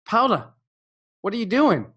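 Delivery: high, startled "Paula, what are you doing"; incredulous call-out. Retold or imitated. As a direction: catch her red-handed, disbelieving. Catching student slacking.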